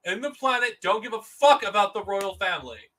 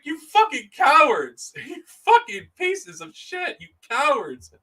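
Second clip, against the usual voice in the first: angry shout; 7 semitones higher, 4 dB louder than usual. Real, not acted. Shouted insults with laugh.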